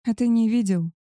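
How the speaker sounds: a touch of surprise, pitch lifted; surprised. Acted. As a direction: ask in mild astonishment. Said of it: "удивилась я".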